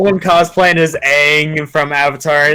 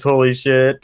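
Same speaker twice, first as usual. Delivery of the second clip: lightly voiced brooding edgy hero; a hint of a dark antihero growl; Shadow voice; 6 semitones lower, 3 dB quieter than usual. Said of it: "I can do a good Shadow voice".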